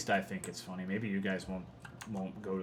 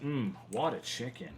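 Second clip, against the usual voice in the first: savoring food; 3 semitones higher than usual. Shown as a demonstration. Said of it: "it's like".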